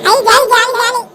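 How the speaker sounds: loud, bouncy cheer; kid's delighted cheer; excited cheer. Acted. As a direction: cheer like a happy kid. Children cheer about Christmas.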